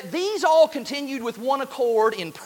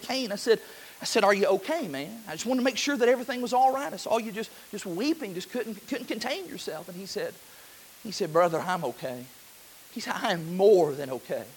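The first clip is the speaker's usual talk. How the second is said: much softer, confiding recollection; hushed retelling; 2 semitones lower, 5 dB quieter than usual. Retold or imitated. Preacher retelling a tender talk with a weeping man, hushed. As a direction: bring the room close with a soft retold chat.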